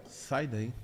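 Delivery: one flat quiet order, no discussion; curt low order. Retold or imitated. Mother telling her daughter once to get away, curt and soft.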